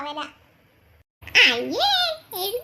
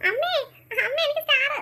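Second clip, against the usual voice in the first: a child's mild put-on crying; tearful whining; 3 semitones higher than usual. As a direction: whine to mother, half crying for a star. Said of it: "എന്തിനാ കുട്ടി കരയുന്നേ?". (കരഞ്ഞു കൊഞ്ചി ചോദിക്കുന്നു)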